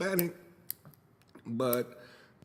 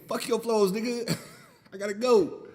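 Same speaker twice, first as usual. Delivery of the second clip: higher mock dog voice with a laugh; voicing the dog; 9 semitones higher, 5 dB louder than usual. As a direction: give the puppy a cheeky voice. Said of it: "It was as if he was saying".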